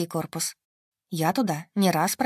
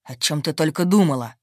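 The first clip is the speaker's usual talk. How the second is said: growl; 2 semitones lower, 5 dB louder than usual. A narrator's reading. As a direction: growl the question, loud. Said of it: "рыкнул он".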